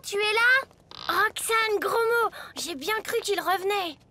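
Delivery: calling out. Acted. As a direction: call them over, hurried and anxious.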